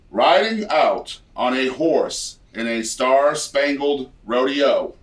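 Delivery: slow, showy game show read of lyrics; lightly hammed game show host. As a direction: drag each word out like a host. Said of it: "a set of lyrics in a game show voice".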